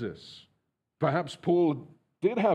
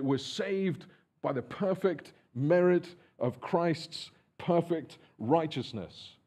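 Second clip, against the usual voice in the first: normal talking voice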